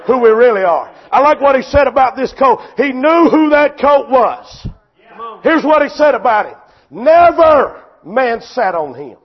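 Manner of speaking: loud, driving sermon delivery; full-force preaching. Real, not acted. Preacher to congregation on troubles and the tied colt, full-force preaching. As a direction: preach it hard, punching key phrases.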